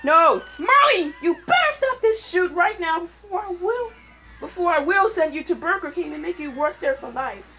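mock scolding. Scolding Marley in-game.

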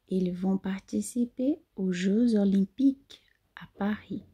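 whisper. Shown as a demonstration.

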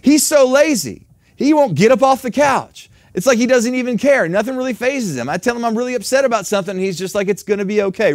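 preacher mimicking a wife fed up with her husband, loud griping; mock complaining wife. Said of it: "your attitude changes completely to".

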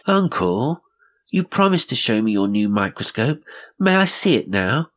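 put-on a high, eager child's voice pressing his uncle; demanding boy. Boy pleads with uncle at bedtime, high and eager. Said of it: "Pete demanded".

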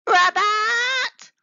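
high, loud botched "Rabbit"; tadpole's ribbit comes out as "Rabbit"; wrong ribbit. A narrator's reading. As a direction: shout "Rabbit" like a failed croak. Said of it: "opened his mouth and".

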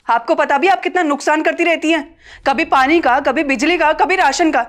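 high, punchy list of complaints; angry listing. Acted. Daughter-in-law lists wasted water, power and rations, angry. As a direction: hammer each item of waste.

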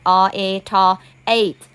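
"O A T" as separate sounds, then "ate"; sounding out. Shown as a demonstration. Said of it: "เลยอ่าน".

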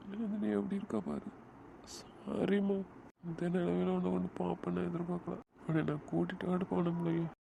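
soft, tearful voice breaking; quiet weeping apology; crying. Acted. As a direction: choke back tears over her bed. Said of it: "அழாதடா, விடு".

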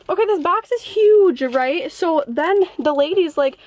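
winded while telling it; out of breath. Real, not acted. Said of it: "Oh my god, I'm out of breath".

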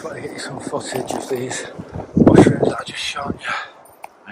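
whispering. Real, not acted. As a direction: hush it like sharing a secret. Filming mushrooms close.

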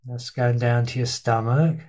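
unhurried body-scan guidance with long pauses between instructions; guided meditation. Real, not acted. Teacher leading listeners through a body scan, guided meditation. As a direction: guide listeners through their body, leaving space after each phrase.

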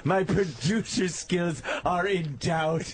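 shouted rhyme. Pretend. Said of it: "I'm also a little teapot".

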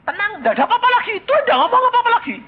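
high, fast, laughing punchline. Real, not acted.

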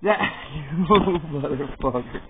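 slow laughing curse at the dog. Real, not acted. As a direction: laugh it out while cursing the dog. Dog knocks tablet over.

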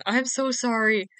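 apologising mid-yawn. Real, not acted. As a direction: stretch the words through a yawn. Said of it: "you're making me yawn".

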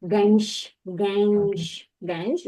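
"Генщ" drawn out with a long final hush; slowly modelled word. Shown as a demonstration. Teacher correcting a learner's reading, the word stretched out slowly.

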